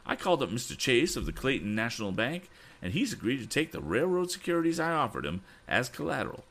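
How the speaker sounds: high, excited character voice; much excited. Acted. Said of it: "He was much excited".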